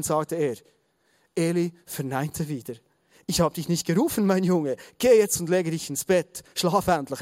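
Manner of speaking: measured storytelling read-aloud; Bible story narration. A narrator's reading. Preacher reading the story of Samuel to the congregation, measured narration. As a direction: read the story out with deliberate phrasing.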